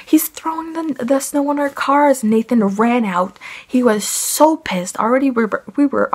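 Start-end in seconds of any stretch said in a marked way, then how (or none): 0.0-2.2 high, half-shouted alarm; mock scream raising the alarm; retold scream. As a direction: call out the alarm, pitch way up. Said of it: "I just screamed".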